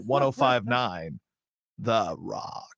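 slow, stretched-out DJ voice; slow motion. Shown as a demonstration. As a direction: stretch it out to hit the post. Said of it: "I'm starting to talk in slow motion".

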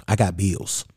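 low, quiet brush-off; deadpan refusal. Acted. Answering someone who asks for money, low deadpan refusal. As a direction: drop it low and soft, a stock excuse.

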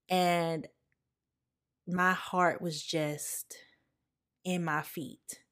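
breath-only, slow, fading to a hush; words catching as real grief rises; choked up. Real, not acted. Recalling the news of her uncle's death, choked up. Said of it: "I don't know why I'm so emotional today".

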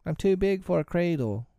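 put-on high-pitched child's objection; small boy's indignant plea; remonstrating. A narrator's reading. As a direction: protest like a little boy, voice up high. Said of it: "remonstrated Michael".

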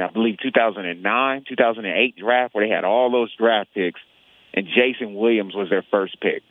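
speaking through a face mask; muffled voice behind a mask. Real, not acted. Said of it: "forgive me if I sound a little muffled".

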